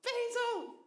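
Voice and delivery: high, bright call to the dog. Real, not acted. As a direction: sing the name to the dog. Calling the dog.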